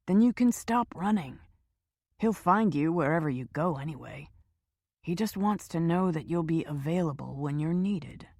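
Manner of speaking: hushed, falsely soothing hitman; lightly reassuring cold voice; smooth hitman. Acted.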